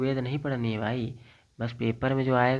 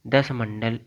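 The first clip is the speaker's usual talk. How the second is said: दस punched louder; stress on दस; 4 dB louder, slower than usual. Shown as a demonstration. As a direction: drill दस for memory. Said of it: "important चीज़ है". (दस पर ज़ोर)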